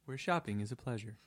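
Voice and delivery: a hint of a jingle announcer; mock slogan voice. Co-host finishing the fake Publix ad with a lightly voiced slogan. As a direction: deliver the tagline like an ad close. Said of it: "Thanks for shopping at Publix".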